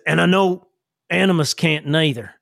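folksy character voice, halting and earnest; Sam. Acted. Sam advises Jillian on powers, folksy and earnest. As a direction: reason it out in plain country talk. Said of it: "And he says".

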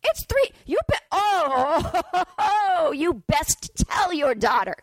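mock-furious lecture at the dad; incredulous rant. Real, not acted. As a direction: scold him in squeaky disbelief. Ranting at the dad.

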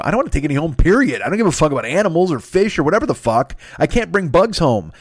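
high, loud retold rant; mock-panicked, voice up and loud; panicked outburst. Retold panic about bringing bugs home.

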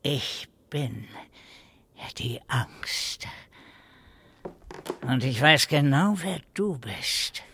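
menacing. Acted. Old man threatening the gunman.

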